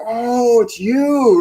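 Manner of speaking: high, delighted realization; light up as if you've got it; surprised recognition. Retold or imitated. Recognizing the sign from God.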